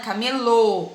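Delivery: camelô ending on a closed, stressed ô; closed final O. Shown as a demonstration. Teacher points out the accent sound, camelô with closed final ô. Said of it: "Olha o som do O fechado".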